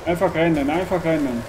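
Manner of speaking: loud self-urging to run; urgent shout. Real, not acted. Player chased by monster shouts at himself to run. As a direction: drive yourself on in a panic.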